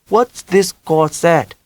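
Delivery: put-on mother in a heavy Vietnamese accent, high. A narrator's reading.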